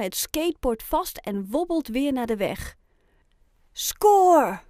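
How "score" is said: high, loud, drawn-out cheer; triumphant exclamation. A narrator's reading. Oscar thinks it on grabbing the skateboard, triumphant. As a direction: crow it in triumph.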